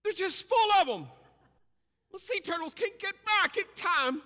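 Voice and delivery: very high, loud, breaking into a squeal; excited. Acted. Preacher to congregation about stranded sea turtles, loud squealing excitement. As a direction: pile up the drama until it cracks.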